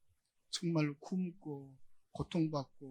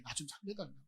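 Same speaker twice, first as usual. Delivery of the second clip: a soft, pleading murmur, much quieter; hushed plea; 8 dB quieter than usual. Acted. Preacher voicing Jesus begging the Father, hushed and pleading. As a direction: plead softly, almost to yourself.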